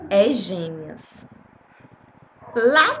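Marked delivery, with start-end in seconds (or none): 0.1-1.2 very slow, low, hushed voice from nowhere; mysterious voice. Retold or imitated. Retelling the voice of God announcing twins. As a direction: drawl it out like an unseen voice. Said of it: "ouvi uma voz me falar assim".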